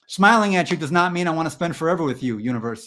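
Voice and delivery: high, indignant comic rant; mock-outraged pleading; exasperated protest. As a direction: set a clinger straight, worked up. Mock rant at clingy universe.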